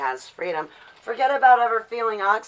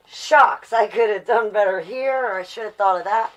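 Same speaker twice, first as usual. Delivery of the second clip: higher, louder burst of self-reproach; mock self-scolding, louder and higher; frustrated self-scolding; 3 semitones higher, 6 dB louder than usual. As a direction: kick yourself out loud. Self-scolding after an event.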